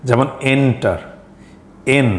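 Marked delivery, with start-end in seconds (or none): 0.5-1.0 এন্টার with the weight on the opening এন; first-syllable stress. Shown as a demonstration. Teacher showing learners where stress falls, stress on এন in এন্টার. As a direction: lean on এন, let টার fall away in এন্টার. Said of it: "এই সিলেবলটাতে stress দিয়ে".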